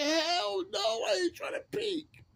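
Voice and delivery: high, loud mock denial shouting hell no; imitating a bunkmate's outraged yell; indignant shout. Cellmate yelling his denial at the narrator, high and loud.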